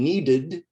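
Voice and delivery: "needed" ending in an id sound. Shown as a demonstration. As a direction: say "needed" as two syllables, need-id. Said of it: "the E D sounds like id".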